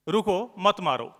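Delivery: रुको set apart, then मत मारो together; a slow "रुको", break, "मत मारो" as a don't-hit order; pause after रुको. Retold or imitated. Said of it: "तीन वर्ड है".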